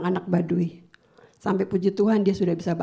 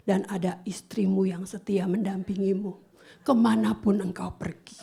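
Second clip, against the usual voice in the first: calm your husband gently; reassuring wife; tender comfort. Retold or imitated.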